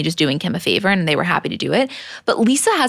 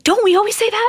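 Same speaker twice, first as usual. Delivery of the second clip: much higher, mock-surprised Julie voice; imitating Julie. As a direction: squeak it out like an excited friend. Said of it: "she's like".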